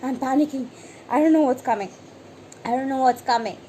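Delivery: hammed-up fear of what comes next; mock panic. Reader panicking at the Death card, mock panic. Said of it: "you get a Death card and you're like".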